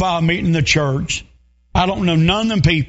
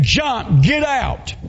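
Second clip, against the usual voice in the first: pitched well up, frantic shout; retold shout; 5 semitones higher, much slower than usual. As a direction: yell it to the old woman inside. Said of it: "They're saying".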